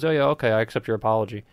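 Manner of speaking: quick, offhand mock forgiveness; quick acceptance. Everyone forgiving the public apology, quick mock acceptance. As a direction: accept it in a hurry, lightly acted. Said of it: "everyone just goes".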